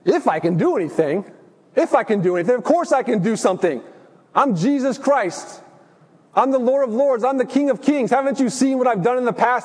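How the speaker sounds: lightly voiced Jesus, amused disbelief; incredulous Jesus. Jesus answering the doubting father, mildly incredulous. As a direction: scoff gently, a laugh at the doubt. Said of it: "Jesus responds sort of incredulously".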